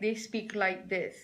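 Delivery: muffled, as if behind a covered mouth; mumbling. Shown as a demonstration. Trainer showing webinar how shy presenters talk, mumbling. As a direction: demonstrate a shy, mumbled delivery. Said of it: "it sounds like they're mumbling".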